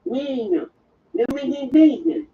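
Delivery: lightly voiced great-aunt with broken English; mild impression of an incomprehensible aunt; imitating Aunt Rose. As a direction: imitate a relative's muddled speech. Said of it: "who talked like this".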